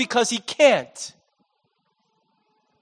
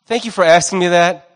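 weary confession. Retold or imitated. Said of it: "And he says".

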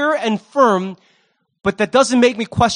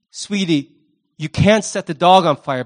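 gentle sweetie; 3 semitones lower than usual. Shown as a demonstration. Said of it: "You can say".

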